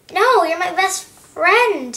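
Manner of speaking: drawn-out, slow plea; pleading protest. Acted. Percy begging Thomas, his best friend, slow pleading protest. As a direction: beg your friend not to, slowly.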